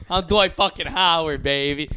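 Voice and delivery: loud, bragging shout; hype shout. Pretend. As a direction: pump yourself up like a star. Hyping himself as NBA star.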